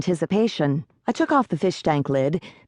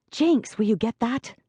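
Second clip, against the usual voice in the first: calmly; 6 semitones higher, 3 dB quieter than usual. A narrator's reading.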